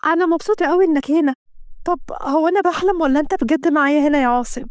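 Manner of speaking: young woman, lightly voiced joy; happy young woman. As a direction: sound thrilled he came. Kenda delighted at Assem's visit.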